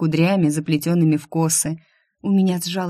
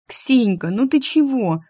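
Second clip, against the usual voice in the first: higher-pitched imploring appeal; raised, beseeching question; pleading; 6 semitones higher than usual. A narrator's reading. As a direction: plead with a friend in dismay. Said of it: "взмолилась я".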